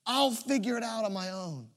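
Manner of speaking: put-on ashamed child plea. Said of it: "too much shame".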